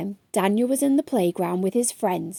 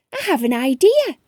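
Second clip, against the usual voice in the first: exclaiming; 5 semitones higher, 5 dB louder than usual. A narrator's reading. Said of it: "he exclaimed".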